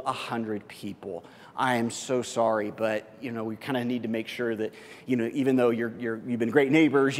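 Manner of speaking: sheepish apology. Acted. Neighbor uninviting you from the wedding, sheepish and embarrassed. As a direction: apologize awkwardly, voice sinking.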